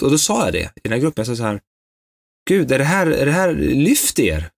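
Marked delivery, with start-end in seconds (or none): 2.5-4.5 irritated retort. Retold or imitated. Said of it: "Jag blev så irriterad".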